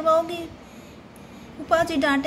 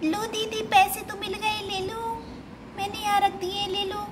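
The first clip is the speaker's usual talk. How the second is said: put-on small child voice, a bit higher; lightly voiced young girl; little girl Chunmun; 4 semitones higher than usual. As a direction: play the eager little sister.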